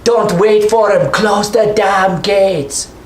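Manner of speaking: high, slow gruff order; grizzled dwarf barking orders; gruff NPC. Acted. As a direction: growl the order at the guards. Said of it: "He says".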